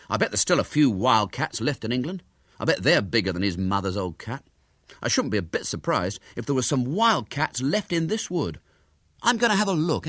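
lightly voiced eager schoolboy; lightly voiced William. William talks Ginger into searching the wood, lightly voiced boy.

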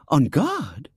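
put-on girl echoing in disbelief; surprised repeat. A narrator's reading. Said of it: "she repeated".

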